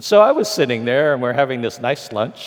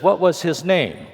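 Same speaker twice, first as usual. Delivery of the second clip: asking through a laugh, pitched higher; laughing question; 7 semitones higher than usual. Retold or imitated. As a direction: let the giggle leak into the question. Diversity head asks, laughing.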